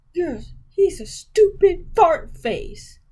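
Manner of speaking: put-on high, slow, wailing kid voice; crying child. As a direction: sob it out like a hurt little kid. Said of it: "he's like".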